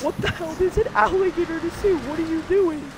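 high-pitched incredulity; retold shock. Cartoon-like dreamer confronts alligator on two legs, incredulous. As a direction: question it in mock alarm, voice lifted high.

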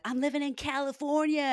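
put-on American accent, high and loud; mock Californian twang. Australian imitating an American accent for her friend. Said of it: "when I do the accent".

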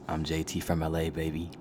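low, put-on smooth seducer; mock sultry. Podcaster playing up to shorties, mock sultry. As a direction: introduce yourself in a low sultry voice. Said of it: "listen to my sultry voice".

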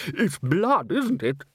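lightly voiced musician seeking confirmation. A narrator's reading. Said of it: "said a musician".

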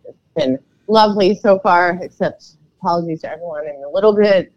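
hoarse, froggy voice from a stuffy throat; a little croaky and rough. Real, not acted. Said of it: "froggy sounding".

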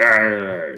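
drawn-out mock growl of rage; livid growl. Livid general as the captain leaves, mock angry growl. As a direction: imitate a fuming boss with a long "arr". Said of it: "He's livid".

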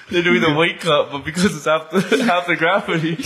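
giggles bubbling through every phrase; can barely hold the laugh in; laughing while talking. Real, not acted. Giggling through silly Mars bit.

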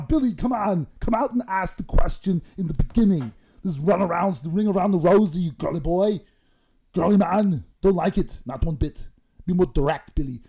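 mock lecture. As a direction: boss him around, bodybuilder style. Lecturing Billy to be direct.

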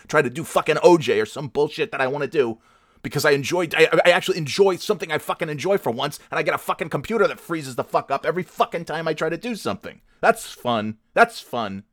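high-pitched, aggrieved venting; exasperated rant. Real, not acted. Podcaster whose fun keeps freezing up, exasperated. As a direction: pour out the frustration without stopping.

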